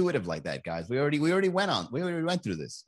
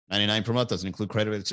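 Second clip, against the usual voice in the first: mock disclaimer read; 3 semitones lower, faster than usual. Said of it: "tone of voice of that guy at the end of the disclaimer".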